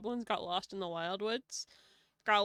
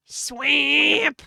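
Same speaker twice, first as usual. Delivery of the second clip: shouting; 4 semitones higher, 14 dB louder than usual. Acted. Shouting out the place name.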